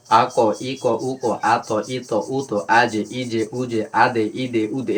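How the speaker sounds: "আ, দে, ই, দে, উ, দে" with an echoing knock on each stop; qalqala. Shown as a demonstration. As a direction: bounce each closing consonant in "আ, ক, ই, ক, উ, ক". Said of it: "এগুলো যদি মানে ধাক্কা খায়". ("আ, ক" থেকে "উ, দে" প্রতিটিতে ধাক্কা দিয়ে কলকলা)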